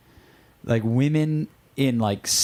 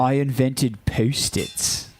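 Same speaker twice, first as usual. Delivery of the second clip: slow, lightly voiced valley girl line; a hint of ditzy Romy, drawn out; Romy impression; much slower than usual. Co-host quoting Romy from the movie, slow and mild. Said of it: "I was talking like Romy from Romy and Michelle's".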